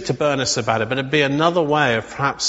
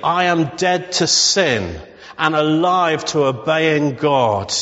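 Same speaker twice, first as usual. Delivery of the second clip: slow declaration; slower than usual. Shown as a demonstration.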